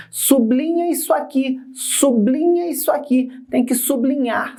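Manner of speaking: imitando alguém da escola. Retold or imitated. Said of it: "alguém falando assim pra gente". (imitação de alguém da escola, voz mais aguda)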